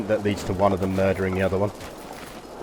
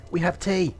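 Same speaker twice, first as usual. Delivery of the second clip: excited emphasis; 8 semitones higher than usual. Shown as a demonstration. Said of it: "you don't know that we have tea".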